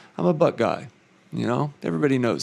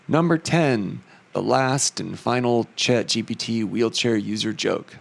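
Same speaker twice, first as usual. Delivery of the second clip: put-on southern accent. Announcing the last joke to viewers, light Southern accent. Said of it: "a little bit of a southern accent".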